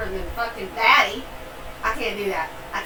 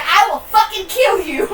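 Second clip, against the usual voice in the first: mock threat; 7 semitones higher, 3 dB louder than usual. Retelling threatening her mom.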